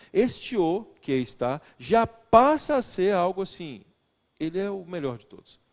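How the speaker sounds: the o held long and loud; stress on o. Shown as a demonstration. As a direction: draw out the o as if he is the only one. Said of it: "da forma como eu pronunciei".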